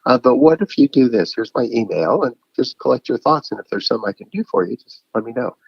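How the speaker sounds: friendly brush-off that trails off; cheerful reply. Retold or imitated. Replying kindly to the aimless caller, chipper then fading. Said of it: "I'm like".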